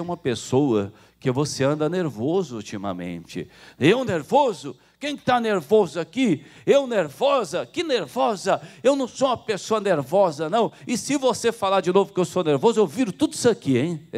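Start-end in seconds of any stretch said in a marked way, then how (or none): 3.8-14.1 high, heated mock outburst, faster at the threat; a touchy churchgoer denies being nervous; angry denial. (negação irritada e aguda)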